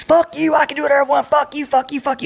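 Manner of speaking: high, raging yell at the top of the lungs; retold screaming. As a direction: scream it like a man losing control. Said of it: "starts screaming out of the top of his lungs".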